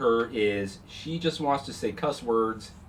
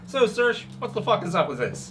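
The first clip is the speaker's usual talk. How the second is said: put-on high, loud kid greeting; a cheeky eleven-year-old shouting hello; bratty little girl; 8 semitones higher, 5 dB louder than usual. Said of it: "she looks at Saoirse and goes".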